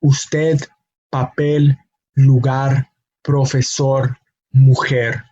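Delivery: Usted, papel, lugar, profesor, mujer, each said alone with its final syllable stressed. Shown as a demonstration. Teacher lists Spanish examples, stressing last syllables of Usted, papel, lugar, profesor, mujer. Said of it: "emphasis on that last syllable".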